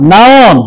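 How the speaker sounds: নাউন said slowly and clearly as a model; demo pronunciation. Shown as a demonstration. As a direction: say নাউন crisply for the class to copy. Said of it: "আমি একবার তোমাদেরকে শোনাই". (স্পষ্ট উচ্চারণে নাউন)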